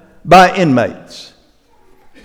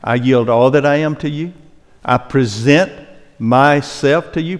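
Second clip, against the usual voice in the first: model prayer; 2 semitones lower, 5 dB quieter than usual. Pretend. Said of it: "and say".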